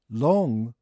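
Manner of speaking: "long" with a clear L, tongue touching the palate; L pronunciation. Shown as a demonstration. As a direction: say "long" loudly with an L sound. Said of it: "RとLの発音があって".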